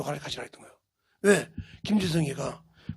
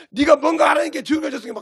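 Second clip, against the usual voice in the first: heated accusation; 5 semitones higher, 3 dB louder than usual. Acted. Preacher shows Job's friends arguing relentlessly, heated accusation. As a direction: voice climbing high in reproach.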